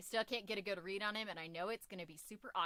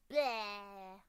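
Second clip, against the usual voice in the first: mock disgust noise; 4 dB louder than usual. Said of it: "Just that sound effect".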